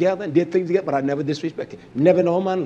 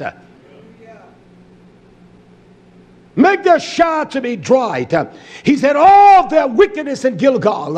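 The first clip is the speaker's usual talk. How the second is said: fiery preaching; 2 semitones higher than usual. Acted. Preacher thundering scripture to his flock, full force. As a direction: preach it out full-voiced, rising and falling.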